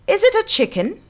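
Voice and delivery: a squeaky, curious frog; frog asking. Acted. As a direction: frog guessing what the kitten is, very high. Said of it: "asked Ribbit".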